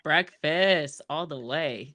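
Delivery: excited, drawn-out answer; slow, emphatic enthusiasm. Real, not acted. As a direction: answer with real relish, stretching the words. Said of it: "I got too excited".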